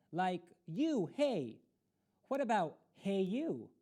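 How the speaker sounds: put-on teasing kid voice. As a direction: tease her name like a mocking kid. Kids teasing her name.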